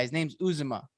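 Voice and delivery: "Uzomah" said OO-zuh-muh; mispronounced name. Retold or imitated. Quoting the ex-teammate introducing the player, mispronounced name. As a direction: stress the front of "Uzomah", weak middle. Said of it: "He's like".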